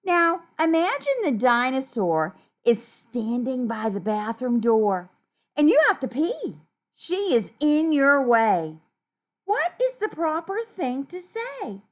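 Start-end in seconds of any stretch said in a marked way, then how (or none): 0.0-8.8 story reading. A narrator's reading. Reads story to children.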